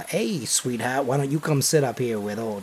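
put-on low-key sleazy older driver, softened; creepy old Terry. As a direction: lightly voice a gross come-on. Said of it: "he would have been way more gross".

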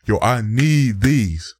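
imitated slow, drawn-out begging; emphatic plea. Mocking the every-Friday callers, emphatic plea. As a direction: mimic an insistent customer, stretching the words.

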